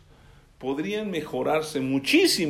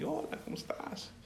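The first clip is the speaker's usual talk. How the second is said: mock greeting; 11 semitones higher, 12 dB quieter than usual.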